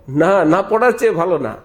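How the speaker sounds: loud, firm rebuttal; emphatic denial. Real, not acted. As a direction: hammer home the না. Preacher rebuts loudly. (জোরালো প্রতিবাদ)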